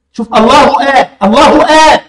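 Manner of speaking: الله آه with the u running into آه; الله آه with no waw; damma link. Shown as a demonstration. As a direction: join الله to آه with a short u. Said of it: "مش الله وآه".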